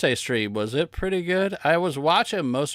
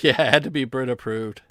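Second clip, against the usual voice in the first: laughing; 2 semitones lower, 3 dB louder, faster than usual. Real, not acted. Laughing at own joke.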